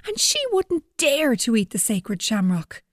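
put-on lively storyteller reading to kids; story narration. A narrator's reading. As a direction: tell it like a children's story. Reads story to children.

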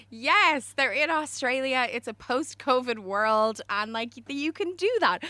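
loud, high, delighted cheer; so happy. Retold or imitated. Host recalling her reaction to the smooch photos, overjoyed. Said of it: "it made me so happy".

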